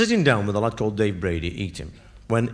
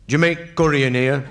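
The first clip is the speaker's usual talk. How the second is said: put-on drunk's daft question. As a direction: ask it like a drunk who means it. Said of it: "he came up with this question".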